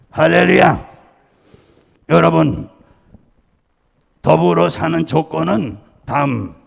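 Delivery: firm, ringing pulpit delivery with cadenced endings; preaching. Acted. Pastor preaching on hearing God to his congregation.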